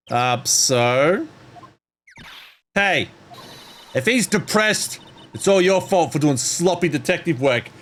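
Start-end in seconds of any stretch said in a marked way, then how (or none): 2.7-7.7 detective voice. Acted. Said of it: "the detective voice ain't coming out right".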